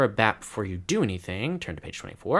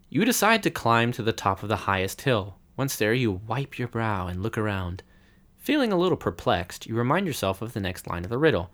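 steady adventure-book narration; story narration. A narrator's reading. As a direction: read it like a gamebook. Game master reads the adventure.

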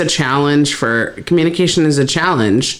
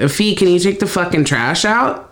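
agitated plain voice; 4 semitones higher than usual. Shown as a demonstration. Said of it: "you can hear my, like, agitation".

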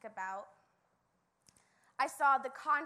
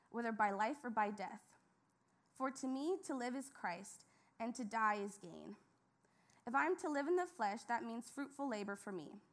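measured, reverent Bible reading; scripture reading. Acted. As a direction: read the passage steadily, with reverence. Reads scripture aloud.

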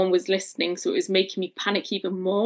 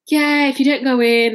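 insistent staff; 6 semitones higher, 7 dB louder than usual. Retold or imitated. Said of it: "They were like".

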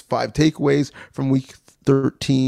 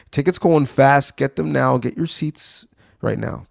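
salesman voice; 3 semitones higher than usual. Pretend. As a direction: hype the tickets like a salesman. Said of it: "my best impression of a salesman".

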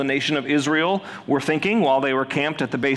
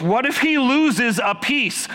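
panicked thought; 10 semitones higher, slower than usual. Retold or imitated. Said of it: "all I could think of was".

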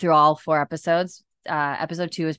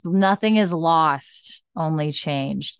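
slow careful quote; slower than usual. Shown as a demonstration. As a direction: land the remembered line slowly and deliberately. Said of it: "There we go. I got there".

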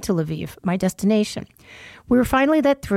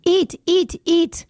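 insistent urging; 9 semitones higher, much slower than usual. Retold or imitated. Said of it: "Both she and Vitaly were on me".

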